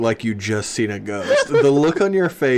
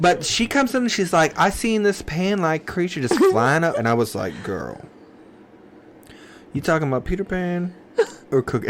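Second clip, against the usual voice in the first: mock college girl retelling gossip; hammed-up college girl, close to cracking up; 4 semitones higher than usual. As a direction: tell it as a put-on college girl, pitch swooping. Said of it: "I can't keep the voice".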